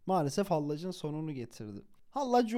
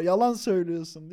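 louder mock shout; raised-voice accusation, acted lightly; imitated yelling; 6 dB louder than usual. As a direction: call out a liar, storyteller style. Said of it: "bağırıyor imama".

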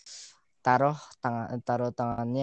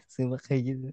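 high, loud mock scolding; a hammed-up angry teacher scolding; 5 semitones higher, 4 dB louder than usual. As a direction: scold a kid for playing on the railing. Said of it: "terus gua dimarahin".

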